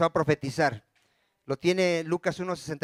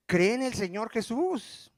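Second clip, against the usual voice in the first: drawn-out, higher-pitched reply; patient insistent answer; 5 semitones higher, slower than usual. Acted. Preacher models the answer to someone seeking salvation, patient insistence. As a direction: stretch it out slowly, lifting the pitch. Repeats the answer to a confused seeker.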